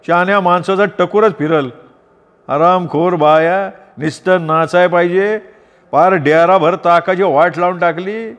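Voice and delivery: stomp around cursing the women; ranting curses. Acted. Banker rants at the wives over spilled buttermilk, angry. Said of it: "शिव्या फेकत राहिला".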